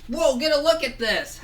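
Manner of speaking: high, excited whoa; amazed exclamation. Acted. Boy amazed by the food sculpture, excited. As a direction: gasp it out in wonder.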